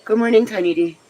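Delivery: high sweet voice for a pet; high cooing hello; baby talk greeting. Pretend. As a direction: coo it like a morning greeting to a little one.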